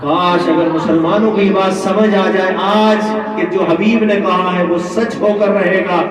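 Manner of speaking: full-force preaching. Acted. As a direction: declaim the story to a congregation, voice held up. Preacher exhorts and retells. (پرجوش خطیبانہ انداز)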